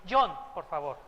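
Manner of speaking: lightly voiced posh insistence on John; a hint of a show-off insisting on John; mock snobbish John. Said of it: "hasta se sienten así más acá".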